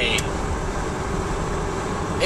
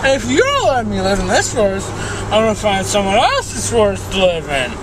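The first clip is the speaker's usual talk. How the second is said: ranting bear; 5 semitones higher than usual. Acted. Bear rants at the tree.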